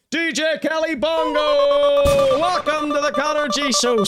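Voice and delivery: drawn-out, high hype-man shout of the name; announcer shout. Acted. Streamer hyping a chatter's name to his live audience, high slow announcer shout. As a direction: bellow it like a ring announcer.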